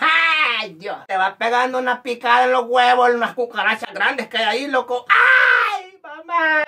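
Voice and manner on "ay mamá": play-acted, very high, pained shouting cry. Acting out someone stung by a cockroach calling to his mom, retelling a shout. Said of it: "Y así le gritaba".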